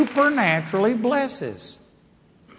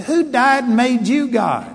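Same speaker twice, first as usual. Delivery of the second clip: retold retort; 7 semitones higher, 5 dB louder than usual. Retold confrontation, sharp retort.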